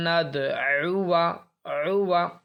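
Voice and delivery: drawn-out recitation, alif left silent; slow tajweed recitation; Quranic recitation. Shown as a demonstration. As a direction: recite it slowly with the alif unspoken. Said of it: "silent है".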